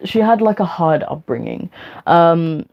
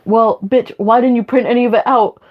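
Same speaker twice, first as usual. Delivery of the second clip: exasperated retort; 5 semitones higher than usual. Retold or imitated. Teacher retorting to pupil.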